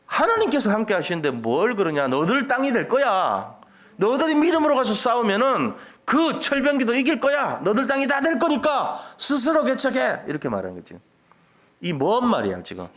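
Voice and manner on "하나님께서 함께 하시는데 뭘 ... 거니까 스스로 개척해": acted leader's rallying cry, climbing high; rousing exhortation. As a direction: urge doubters on with rising conviction. Acts Joshua rallying the doubting tribes.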